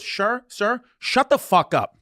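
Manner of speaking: mock firm flight attendant; retold angry snap. Flight attendant snapping at a yelling passenger, mock fed-up. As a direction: act out her finally losing patience. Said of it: "he's still yelling".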